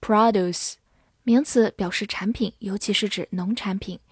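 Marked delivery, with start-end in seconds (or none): 0.0-0.7 produce said the American way, PRAH-doos; American accent on produce; American pronunciation. Shown as a demonstration. Teacher giving the American version of produce, in an American accent. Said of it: "美式发音".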